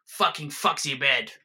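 put-on slow, loud drunken German-ish yell; mock shout. Spotty yelling over crashing pool balls, slow and loud. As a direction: bellow it slowly over the crash. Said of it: "shouts over the crashing sound".

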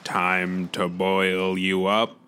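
slow robot voice with Dakota vowels; drawn-out mechanical North Dakota voice; North Dakotan robot. Acted. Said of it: "he's a North Dakotan robot".

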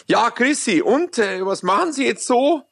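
lightly voiced Bavarian chatty man; a hint of a Polt character; Gerhard Polt sketch voice. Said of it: "dieses Gerhard Polt-Stück".

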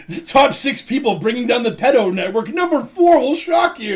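high, hyped clickbait announcer; clickbait video narrator. Pretend. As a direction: sell it like a viral listicle. Parodying clickbait article titles.

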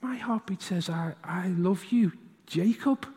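softly, slowly, lovingly; gentle father to his boy; tender dad. Retold or imitated. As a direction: tell a little son he is loved. Tender answer to son.

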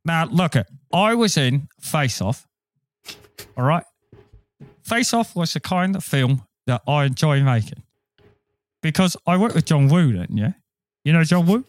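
British-accented celebrity impression, conversational; put-on London actor voice; Michael Caine. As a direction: tell it as a chatty British film star. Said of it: "Michael Caine, doing your famous Nicolas Cage impression".

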